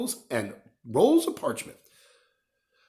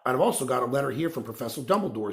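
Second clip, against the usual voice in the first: important; faster than usual. Acted. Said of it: "said Hagrid importantly".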